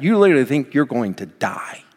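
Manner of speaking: normal talking voice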